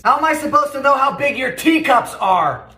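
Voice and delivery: normal talking voice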